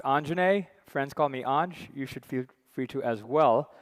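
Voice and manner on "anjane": Anjane said slowly as AHN-juh-nay; name pronunciation. Shown as a demonstration. Session chair introducing himself, pronouncing Anjane as AHN-juh-nay. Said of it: "my name is pronounced".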